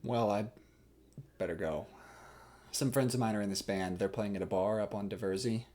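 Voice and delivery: low, hesitant small talk with long pauses; nervous suitor. Acted. Hal awkwardly talking up his band to Catherine, nervous. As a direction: work up courage, haltingly talking up your band. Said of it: "he's super nervous".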